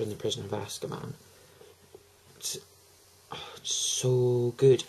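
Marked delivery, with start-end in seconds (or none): 2.4-4.8 slow, whispered adoration; breathy whisper. Real, not acted. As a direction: whisper it like a treasured secret. Gushing about favourite book.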